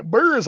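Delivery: "Beers" said like "burrs"; regional pronunciation. Shown as a demonstration. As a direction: say "Beers" with an r-coloured vowel, as in "burr". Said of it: "I say".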